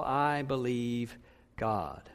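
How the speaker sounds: hushed, slow I believe God; quiet, slow conviction. Shown as a demonstration. Pastor voicing Paul's faith to the congregation, slow and hushed. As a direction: drop low and slow, say it like Paul. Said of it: "To say it like Paul".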